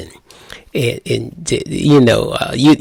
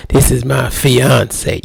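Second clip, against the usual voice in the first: slow and proud, leaning hard on "fiance"; stress on fiance; slower than usual. Retold or imitated. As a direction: let "fiance" ring out proudly, stretched. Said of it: "You, you, you emphasized it".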